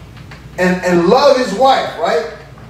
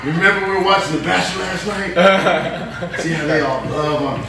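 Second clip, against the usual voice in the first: laughing mockery. Tempter mocking the husband.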